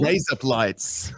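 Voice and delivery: slow Australian take on razor blades; Australian accent. Shown as a demonstration. Guest showing the word trick, slow Australian accent. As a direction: draw it out with Australian vowels. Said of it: "for an Australian version of razor blades".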